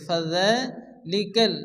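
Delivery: ফাযালিকাল drawn out very slowly; slow tajweed demo. Shown as a demonstration. Teacher modelling ফাযালিকাল slowly. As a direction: stretch the vowel in ফাযালিকাল. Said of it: "একারি পরিমাণ টান দিয়ে পড়তে হবে".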